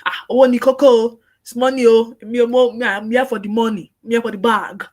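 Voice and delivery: loud brash money talk; mock a greedy assistant; a hint of Nigerian pidgin swagger. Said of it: "Don't just let it be about only the money".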